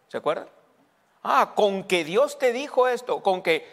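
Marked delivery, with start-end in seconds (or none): 1.2-3.6 high, slow mock incredulity; diablo tentando a Eva. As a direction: taunt Eve with a high, drawn-out doubt. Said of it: "qué fue lo primero que le dijo a Eva". (diablo burlón, con voz aguda y lenta)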